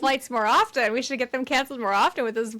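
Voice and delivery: quick mock enthusiasm; sarcastic. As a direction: imitate a smart aleck pretending to be pleased. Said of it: "being sarcastic".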